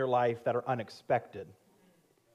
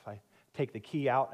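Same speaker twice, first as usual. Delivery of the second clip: ordinary talk, nothing marked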